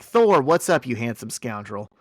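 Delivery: acted-out cheery greeting; good mood. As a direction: greet a buddy with jovial swagger. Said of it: "Tony is in a good mood".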